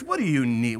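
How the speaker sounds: a hint of haughty condescension; arrogant. Proud helper talking down to a brother, lightly arrogant. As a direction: ask it with a touch of arrogance. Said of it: "in arrogance".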